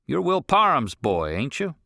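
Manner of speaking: gruff rancher. Acted. Rancher questions the boy on the road, irritated. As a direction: demand an answer, irritated.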